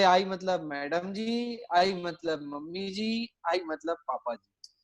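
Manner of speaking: slow, dragged-out schoolboy recitation of "I मतलब madam जी"; slow rote recitation. Retold or imitated. Child answering the teacher in class, reciting slowly. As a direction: recite it word by word like a nervous pupil. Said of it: "बोलो बेटा I मतलब क्या?".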